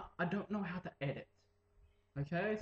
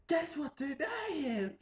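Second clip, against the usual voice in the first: excited teacher; 10 semitones higher than usual. Retold or imitated. Teacher quizzing the class about the day, teasing. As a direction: tease the class with a secret. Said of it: "I'm like".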